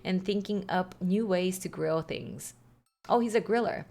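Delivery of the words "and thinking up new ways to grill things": voicing Brian. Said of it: "what kind of voice Brian has".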